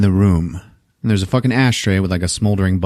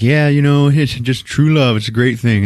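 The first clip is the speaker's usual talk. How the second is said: gushing lovey-dovey; 4 semitones higher than usual. Retold or imitated. Couple gushing about love.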